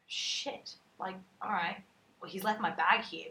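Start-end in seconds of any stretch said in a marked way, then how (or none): 0.1-0.8 whispered curse. Retold or imitated. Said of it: "And I'm like".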